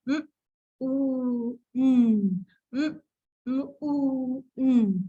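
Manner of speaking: "mm" "ooh" sounded apart, slowly; sounding out words. Shown as a demonstration. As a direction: sound out "mm" "ooh" before blending. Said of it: "encourage them again to blend".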